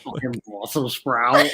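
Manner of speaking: slow, drawn-out mock voice; exaggerated cartoon line reading; character impression. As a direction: drag it out to a rising end. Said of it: "three different interpretations of that".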